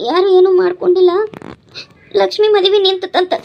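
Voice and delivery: tearfully breaking bad news; upset, on the edge of sobs; crying. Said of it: "ಅಳಾಕತ್ತಿ".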